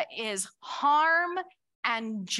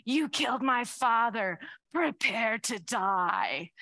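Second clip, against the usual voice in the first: lower, grave avenger's line slowing at the end; light impression of a grave revenge hero; Inigo Montoya; 3 semitones lower than usual. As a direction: deliver the vow like a sworn swordsman. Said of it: "he's like".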